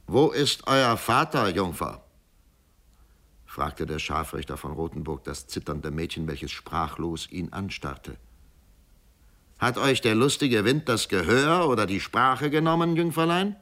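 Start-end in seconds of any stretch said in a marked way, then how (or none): 0.1-2.0 gruff executioner. Acted. Executioner voiced in story. 9.6-13.5 mocking executioner. Executioner mocks the girl.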